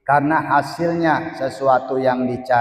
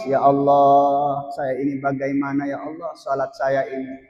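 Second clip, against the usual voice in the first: acted tearful plea. Worshipper lamenting their prayer to God, mock tearful. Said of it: "Seharusnya menangis".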